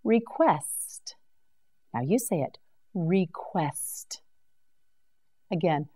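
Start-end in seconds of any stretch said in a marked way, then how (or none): 2.9-4.2 whisper. Shown as a demonstration. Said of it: "whispered model word".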